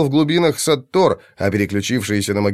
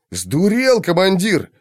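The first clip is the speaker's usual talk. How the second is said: stunned yell; 7 semitones higher, slower than usual. A narrator's reading. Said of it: "ошарашенно завопил Сагнар".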